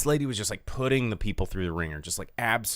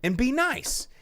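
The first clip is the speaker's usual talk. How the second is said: higher, louder scolding of the rude customer; retold scolding; 10 semitones higher, 5 dB louder than usual. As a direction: tell her off, building up. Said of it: "And I was like".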